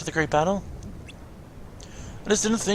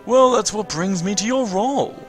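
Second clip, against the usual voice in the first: higher, theatrical mentor voice; voiced master figure; 4 semitones higher, 4 dB louder than usual. Player as the Master answering the apprentice, theatrical mentor voice. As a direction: play the master explaining a mission.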